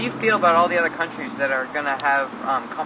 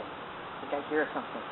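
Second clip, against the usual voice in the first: nature documentary; 5 dB quieter than usual. Acted. Hushed observing of a native.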